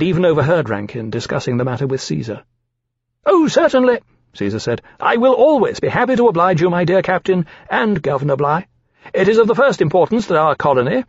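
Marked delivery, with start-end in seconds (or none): 3.2-4.0 put-on high, eager, ingratiating young dragon voice; oily flattery pitched up high; fawning dragon Caesar. Young dragon Caesar flattering the captain, in a high ingratiating voice. 5.0-11.0 put-on high, eager, ingratiating young dragon voice; oily flattery pitched up high; fawning dragon Caesar. Young dragon Caesar flattering the captain, in a high ingratiating voice.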